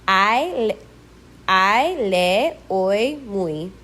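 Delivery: Y after a vowel said as ee in I, le, oi, muy; Spanish final Y. Shown as a demonstration. Teacher showing Y after a vowel, Spanish ee sound. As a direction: end the glides in I, oi and muy on Spanish ee. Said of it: "pronounced exactly like the Spanish".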